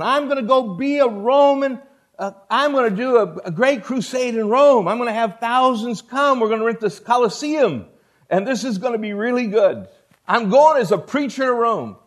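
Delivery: lightly voiced Paul picturing his crusade; eager Paul. Paul dreams of preaching Rome.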